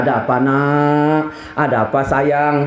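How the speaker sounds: slow, low fatherly tenderness; soothing parent, drawn-out words; loving concern. Retold or imitated. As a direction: gently ask a crying child what's wrong. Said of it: "itu menunjukkan kasih sayang".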